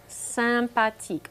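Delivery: "sympathique" said slowly and clearly in French, sam-pa-TEEK, falling at the end. Shown as a demonstration. Teacher modelling "sympathique" for radio students, slowly. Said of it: "or sympa for short".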